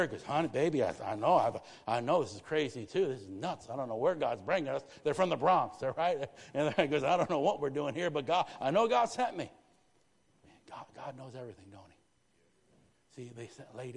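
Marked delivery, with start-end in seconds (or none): 0.2-4.8 loud, earnest reassurance; husband's loud reply. Retold or imitated. Pastor reassuring his wife about the move, loud and earnest. 7.0-9.5 loud, rising declaration; loud conviction. Retold or imitated. Pastor telling his wife God sent him, loud and sure. Husband insists on his call.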